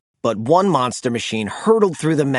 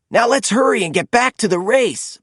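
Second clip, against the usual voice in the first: eager urging; 7 semitones higher than usual. A narrator's reading. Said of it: "Blaze said".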